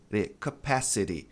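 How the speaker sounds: "capacity" as kuh-PASS-uh-ree; American-style "capacity" with ree ending; flapped T. Shown as a demonstration. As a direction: tap the T of "capacity" like a soft R, slowly. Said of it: "ele vai ter esse som de re".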